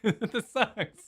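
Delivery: mock whiny grumble.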